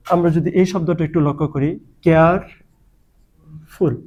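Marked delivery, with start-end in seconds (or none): 2.0-3.9 কেয়ারফুল slowly split in two, long pause before ফুল; syllable by syllable. Shown as a demonstration. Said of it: "এটা কিন্তু দুই syllable বিশিষ্ট". (কেয়ারফুল দুই সিলেবলে থেমে থেমে বলা)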